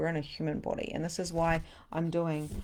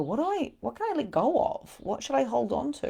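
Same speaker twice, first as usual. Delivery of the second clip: higher, questioning inner voice; voicing the body; 7 semitones higher than usual. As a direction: play the confused body wondering what to keep.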